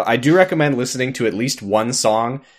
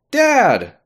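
high mock yell of Dad!; child yelling; 12 semitones higher, 3 dB louder than usual. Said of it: "instinctively yells".

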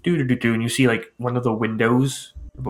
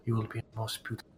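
grand seamstress; 8 dB louder than usual. Acted. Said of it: "She goes".

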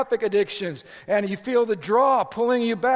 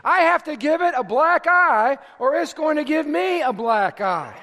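preaching shout; 5 semitones higher than usual. Acted. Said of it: "Paul says".

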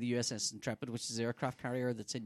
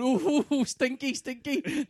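mock disgusted; 11 semitones higher, 7 dB louder, slower than usual.

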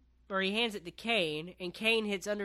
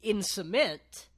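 louder, raised mock yell; imitated yell; 5 semitones higher, 6 dB louder than usual. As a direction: yell it like a wrestler's threat, slowing at the end. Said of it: "Kane yells at him".

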